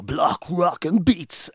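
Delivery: slow, deliberate voiceover read; a gruff song title, each word drawn out; man voice. Shown as a demonstration. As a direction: put on a manly announcer voice, very slowly. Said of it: "that's trying to be my man voice".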